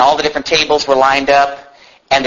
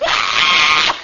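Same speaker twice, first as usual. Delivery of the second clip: short mock crying wail; imitated baby scream. Preacher imitating a baby left in a crib, screaming. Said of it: "One of them was screaming and crying".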